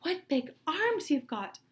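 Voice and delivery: put-on high, slow amazed little girl; high, slow wide-eyed girl voice; exclaiming girl. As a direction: marvel at it slowly.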